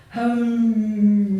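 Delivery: a short moaning hum through a laugh; lightly mocked zombie moan. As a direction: moan it like a dried-up zombie trying to say a name. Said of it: "She has a particular way of moaning".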